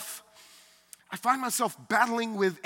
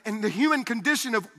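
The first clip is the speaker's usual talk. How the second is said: usual speaking voice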